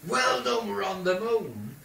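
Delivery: mum's loud, high cheer, retold; hearty congratulation. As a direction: call it out high, drawing out the end. Mum congratulates the captain in story.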